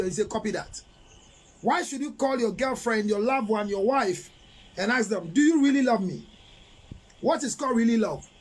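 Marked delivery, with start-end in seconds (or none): 0.3-0.8 deadpan reply. Retold or imitated. Flat reply to I love you. 5.3-6.3 loud mock plea. Mocking a partner's needy question.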